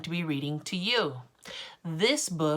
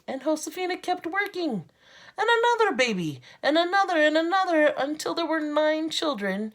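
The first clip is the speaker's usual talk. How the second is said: rising excitement; 10 semitones higher, 5 dB louder than usual. A narrator's reading. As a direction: voice climbing higher and louder with each another. Building refrain in picture book.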